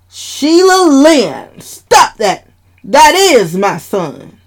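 high, loud, slow scold; stern scolding. Acted. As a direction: warn her off sternly. Dad scolding Sheila.

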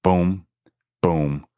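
ordinary talk, nothing marked

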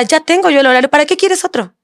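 high mock outrage, rising to a squeak on quieres; retold angry husband. Wife imitating husband's jealous outburst, high mock outrage. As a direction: mimic his indignant complaint, pitched high.

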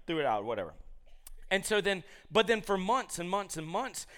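normal talking voice

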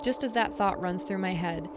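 measured spooky campfire storytelling; story narration. A narrator's reading. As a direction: read the eerie story aloud, letting pauses hang. Reads a listener story aloud.

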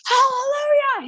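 high, ecstatic shout of praise without extra volume; mock joyful scream. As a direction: imitate the pastor's ecstatic cry, lightly. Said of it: "He's, like, screaming".

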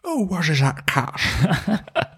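high, very slow silly voice; slow mock cat voice. Teasing his co-host about the meow, slow silly voice. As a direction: stretch it out like a puzzled cat.

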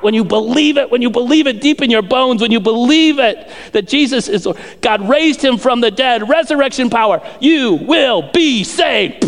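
building, insistent proclamation; full-force preaching. Real, not acted.

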